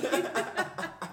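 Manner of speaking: laughing repeat. Retold or imitated. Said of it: "she's like".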